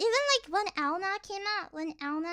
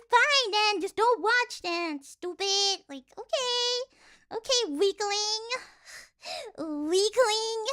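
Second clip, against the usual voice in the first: drawn-out, higher-pitched taunting; mock scorn; 4 semitones higher, slower than usual. Streamer taunting viewers who refuse to watch, mock scorn. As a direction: dismiss them with exaggerated, slow contempt.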